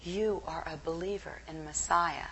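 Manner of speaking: put-on a light broken Israeli accent, soft and low. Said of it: "a very broken Israeli accent said".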